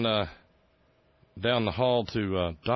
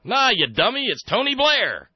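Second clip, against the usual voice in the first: much higher, louder, slow scornful whine; mock Dear Leader; 9 dB louder, slower than usual. The president scolding Cheney, in a high loud mock whine. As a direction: scold him like a bratty kid. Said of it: "And Dear Leader goes".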